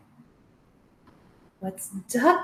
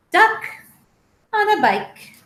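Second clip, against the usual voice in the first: title announced; 8 semitones higher, 6 dB louder than usual. Shown as a demonstration. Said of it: "title said again".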